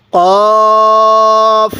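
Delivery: কফ with a short rounded o, not কাফ; correct pronunciation. Shown as a demonstration. Teacher correcting viewers: কফ with a short o, not কাফ. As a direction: say কফ firmly with a short o, never a long a. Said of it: "এটা কিন্তু কাফ না".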